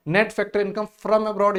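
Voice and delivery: dictating a key term slowly; slow dictation. Shown as a demonstration. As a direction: spell the term out for students. Reading exam term slowly.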